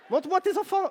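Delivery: plus haut et plus fort, en insistant sur tes; exige-le en haussant la voix. Acted. Interpelle une spectatrice. (il réclame les enfants à la maman, plus fort et plus haut)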